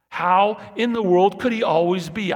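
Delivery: high and loud in amazement, could rising; loud marvelling question. Acted. Preacher marvels aloud to the church, loud and high. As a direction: cry it out in wonder.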